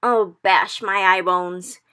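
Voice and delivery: very slow, loud distressed wail; cried. Acted. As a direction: drag the oath out in distress. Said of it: "he cried".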